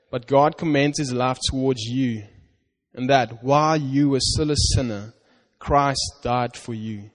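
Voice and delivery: slow, earnest scripture reading to the congregation. Acted. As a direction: read it as God's promise to you.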